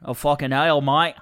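a light Australian accent; casual Aussie exclamation; mild mock Australian. Shown as a demonstration. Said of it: "do Australian real quick".

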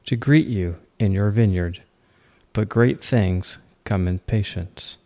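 measured poetry reading with pauses between lines; poem recitation. Acted. Host reads the poem Patience to listeners, poem recitation. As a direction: recite it deliberately, letting each line fall.

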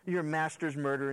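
acted condescending jab; mocking put-down. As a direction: needle him as if acting her contempt. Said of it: "She's putting him down".

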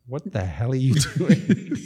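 stretched-out mock bewilderment; mock incredulous reaction. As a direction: imitate baffled onlookers, slowly and pointedly. Acting out onlookers' reaction.

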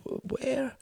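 high, faint stammered question; voice cracking. A narrator's reading. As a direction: barely get it out, cracking. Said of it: "Martin's voice cracked".

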